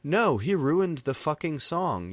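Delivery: high loud angry yell. A narrator's reading. Samaro yelling about the ruined song, loud angry yell. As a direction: yell back in rage. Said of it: "yelled Samaro".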